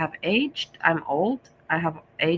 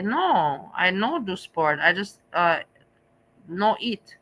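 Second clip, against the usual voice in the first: light mock broken Asian English, almost her own voice; slower than usual. A hint of broken Asian English, mocking a weight-loss claim. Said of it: "speaking broken Asian English".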